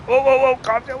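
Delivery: high, urgent whoa; mock alarm. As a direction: rein in a runaway character. Calming a game character.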